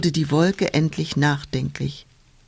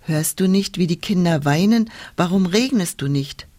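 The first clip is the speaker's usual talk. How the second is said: mildly cross, a little raised; a touch of scolding wind; lightly acted angry rebuke. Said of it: "sagte böse".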